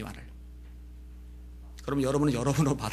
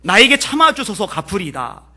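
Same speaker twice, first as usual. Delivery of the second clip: pleading; 4 semitones higher, 7 dB louder than usual. Retold or imitated. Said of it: "엎드려요".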